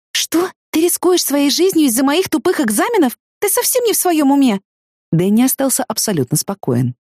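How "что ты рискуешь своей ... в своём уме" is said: outraged. Acted. Outraged at his secrecy.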